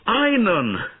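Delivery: desperate shout. A narrator's reading. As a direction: scream his name in terror. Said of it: "shouted Bowen".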